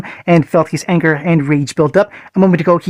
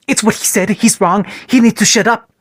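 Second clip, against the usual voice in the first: frantic defiance; 5 semitones higher than usual. Acted. Panicked boy defends his attack.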